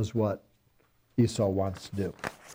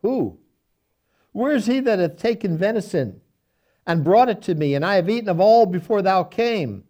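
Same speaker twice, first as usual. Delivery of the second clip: higher and louder, a shaken father crying out; trembling, indignant outcry; 5 semitones higher, 5 dB louder than usual. A narrator's reading. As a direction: let the old blind man's voice rise in alarm and anger. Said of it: "Isaac trembled very exceedingly".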